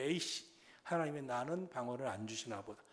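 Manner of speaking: low grumbled giving-up; disgruntled. Retold or imitated. Believer failing at tongues prayer, grumbling resignedly. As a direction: imitate a sulky believer muttering. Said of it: "방언 기도 안 되니까".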